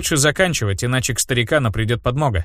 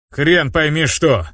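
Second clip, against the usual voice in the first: spat out; 2 semitones higher, much slower than usual. Acted. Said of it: "сплюнул Ганс".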